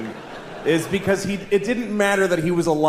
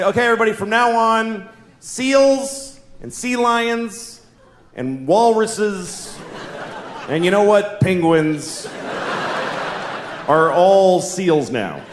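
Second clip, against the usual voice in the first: announcing scientist; 2 semitones higher, slower than usual. Acted. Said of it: "go on T V tomorrow and say".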